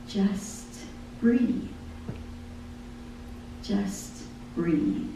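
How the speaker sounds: breathy whispered refrain. Acted. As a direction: whisper it like a gentle calling. Soft voice of God in lyric.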